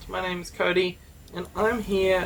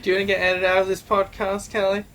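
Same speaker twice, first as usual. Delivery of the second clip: mocking repeat; faster than usual. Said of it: "are you just repeating".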